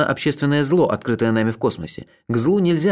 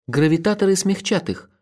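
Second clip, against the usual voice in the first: higher, firm female-character voice; unyielding; 7 semitones higher than usual. A narrator's reading. Olga rebuffs the plea, high and unyielding. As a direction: answer firmly, pitched up. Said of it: "сказала она непреклонно".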